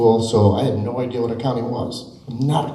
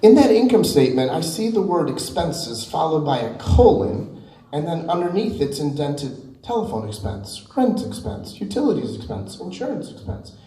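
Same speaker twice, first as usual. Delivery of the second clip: high-pitched eager question from the front row; eager student; 5 semitones higher than usual. Retold or imitated. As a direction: ask it keen and wide-eyed, much higher. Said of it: "because I was really excited".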